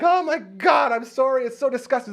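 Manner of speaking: high, loud flustered apology; squealed mock-horrified sorry; mortified apology. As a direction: blurt it out in hammed-up embarrassment. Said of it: "so embarrassed".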